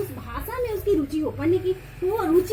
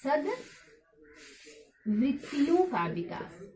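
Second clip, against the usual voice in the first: very slow, word by word with pauses; slow dictation; 4 semitones lower, 6 dB quieter, much slower than usual. Real, not acted. Teacher dictating a heading to students, slow and drawn out. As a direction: draw each word out softly as if writing it.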